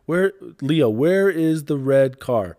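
put-on high sing-song toddler talk; bright distracting questions for a kid. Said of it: "I'm the king of distractions".

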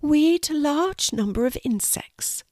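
small spider, starting high; high little creature voice. Acted. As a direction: explain proudly as a tiny spider. Spider explains what spiders do.

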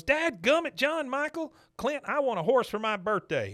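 high, loud fed-up whine; hammed-up woman's outburst; mock exasperated wife. Wife fumes after slipping in poop.

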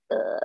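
low, quiet "ugh" of disgust; dismissive ugh. Acted. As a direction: grunt a soft, unimpressed ugh. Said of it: "that's like".

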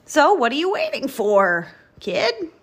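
loud, rising challenge; lightly voiced brash big truck; rumbling roller truck. A narrator's reading. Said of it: "rumbled Roller Truck".

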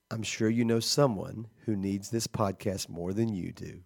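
measured podcast sign-off read; announcer outro read. Real, not acted. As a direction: read the credits like a public radio announcer. Reads the show's outro.

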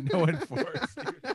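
Forrest Gump voice. Retold or imitated. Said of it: "Was that Forrest Gump?".

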